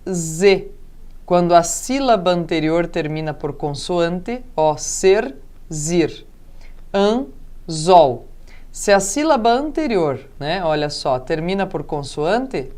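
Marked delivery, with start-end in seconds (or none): 4.8-6.2 ser... zir, pause between the syllables. Shown as a demonstration. Teacher showing where the consonant ends the syllable, split. 6.9-8.3 An... zol, pause between the syllables. Shown as a demonstration. Teacher showing where the consonant ends the syllable, split.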